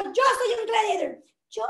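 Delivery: a hint of a shy woman's voice, mock; lightly voiced shy claim of being a gladiator; exaggerated timid gladiator. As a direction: Carla mimics Carmen's shy start. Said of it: "lo que estoy exagerando".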